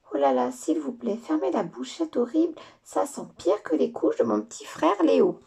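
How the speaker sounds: put-on a child pinching her nose at a stink; disgusted girl. Lola whining to the fairy about the smell.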